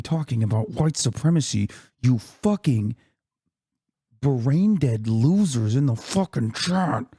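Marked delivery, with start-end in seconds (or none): 2.0-7.0 drawn-out, slow, seething insult; exasperated insult. Real, not acted. Streamer berating chat over a racism accusation, exasperated. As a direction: spit it slowly at the hecklers.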